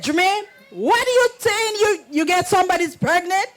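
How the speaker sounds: high, loud disbelieving demand; shocked confronting. Retold or imitated. Mother confronting her son over the news, shocked and loud.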